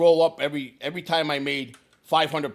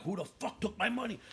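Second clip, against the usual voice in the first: under the breath; 5 semitones higher, 11 dB quieter than usual. Retold or imitated. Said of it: "I'm under my breath".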